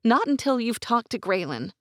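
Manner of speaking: put-on high, urgent young woman, near tears; young woman's voice. A narrator's reading. Gwen voiced.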